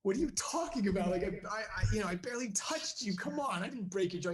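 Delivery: can't believe it; shocked disbelief. Retold or imitated.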